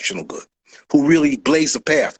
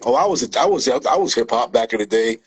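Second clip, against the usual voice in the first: lower, hammed-up poser boasting; mock poser; 5 semitones lower than usual. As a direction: brag like a fake old-timer. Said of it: "those same guys are saying".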